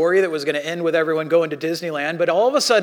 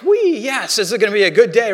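giddy joy; 3 semitones higher, 6 dB louder than usual. Retold or imitated. Preacher acting out finding a dollar on the street, giddy and loud. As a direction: squeal it like finding cash.

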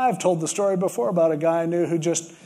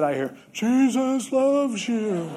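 awed retelling; 5 semitones higher, slower than usual. Retold or imitated. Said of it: "And he said".

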